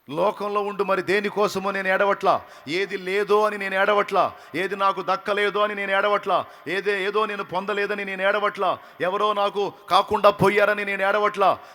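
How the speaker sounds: preacher pouring out Mary's heart; fiery preaching. Acted. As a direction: hammer each line like a preacher. Preaching at full force.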